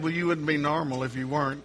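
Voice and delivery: quick laughing reply. Retold or imitated. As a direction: say it through a laugh. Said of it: "I said".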